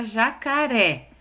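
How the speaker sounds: "jacaré" said loud and deliberate, leaning on the final "ré"; teacher sounding out "jacaré", strong final é; stress on final syllable. Shown as a demonstration. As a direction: punch the last syllable of "jacaré". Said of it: "Qual é a sílaba mais forte?".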